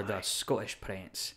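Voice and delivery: slow Scottish accent, double T swallowed. Shown as a demonstration. Wrestler shows his character's name, Scottish accent. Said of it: "Scottish accent for my professional wrestling character".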